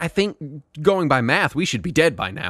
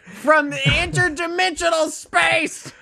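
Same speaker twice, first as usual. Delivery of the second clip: dramatic cosmic narration; 11 semitones higher than usual. Pretend. Dramatic Silver Surfer narration.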